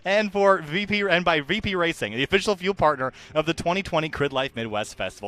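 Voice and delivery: lightly hyped sponsor read; a touch of big announcer. Acted. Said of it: "And now comes announcer voice time".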